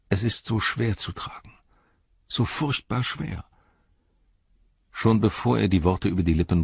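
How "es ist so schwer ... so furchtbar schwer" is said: despairing whisper. A narrator's reading. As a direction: breathe it out as if crushed by the weight. Frodo despairs under the Ring.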